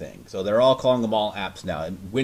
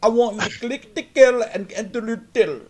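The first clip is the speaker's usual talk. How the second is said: mock tech support agent; 11 semitones higher, 6 dB louder than usual. Mocking the internal tech support guy, high put-on voice. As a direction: parody a scripted helpdesk worker. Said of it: "our internal tech support is all like".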